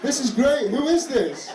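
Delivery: high, loud late-night raver; drugged-up reveller. Acted. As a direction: gush loudly like someone high at a rave. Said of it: "like you've taken drugs at three A M".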